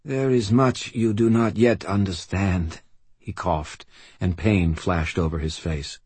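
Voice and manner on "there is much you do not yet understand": put-on weak old man. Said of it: "Shiro said".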